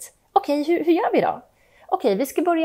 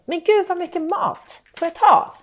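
put-on eager child; 7 semitones higher, 5 dB louder than usual. Child eyeing the food.

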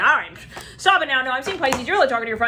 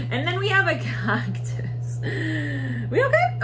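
whisper; 6 semitones higher, much slower than usual. Acted. Teasing about the cactus.

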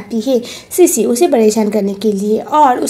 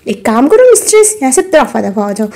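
haughty dismissal; 3 dB louder than usual. Acted. Mistress orders wife out.

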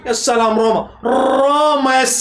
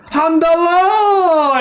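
overjoyed cry; much slower than usual. Real, not acted. Fan hailing Hamdallah's goal, a slow, joyful cry. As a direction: draw the name out slowly in a jubilant cry.

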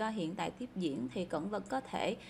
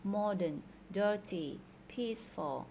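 "Modern", "dirty", "peaceful" each stressed on the first syllable. Shown as a demonstration. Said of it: "những từ còn lại âm đầu". (nhấn âm đầu trong "Modern", "dirty", "peaceful")

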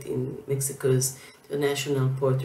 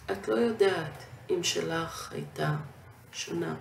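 Hebrew verse read in measured phrases; poem recitation; 2 semitones higher, much faster than usual. Acted. Poet reading from her recent Hebrew book, measured recitation. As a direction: recite line by line, pausing between lines.

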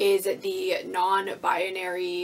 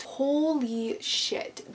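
awed gasp; 5 semitones higher, much slower than usual. Real, not acted. Awed by the book without its jacket.

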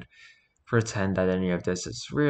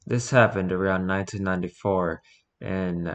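spooky voice. Acted. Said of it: "in a spooky voice".

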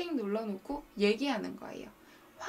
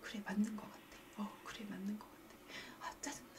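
muttering to oneself; 3 semitones lower, 12 dB quieter than usual. Retold or imitated. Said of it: "요 영상 찍은 걸 들어요".

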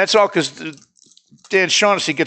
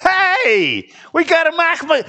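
high, loud, thrilled cry of a name; excited shout; 4 dB louder, much slower than usual. Real, not acted. Excited over a card.

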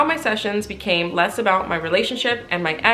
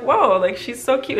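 gushing; 5 semitones higher than usual. Retold or imitated. Gushing about therapist.

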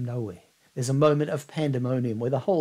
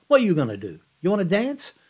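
louder, higher, teasing; playful voice of a famous singer; 6 semitones higher, 8 dB louder, faster than usual. Retold or imitated. The singer to the young boy onstage, teasing and louder. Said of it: "smiles and says".

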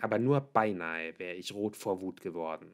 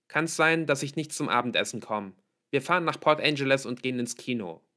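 raised, louder announcement in passing; calling out; 5 semitones higher, 6 dB louder than usual. A narrator's reading. Daughter tells father her evening plans, calling out. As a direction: call it back on the way out. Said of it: "rief ich über die Schulter".

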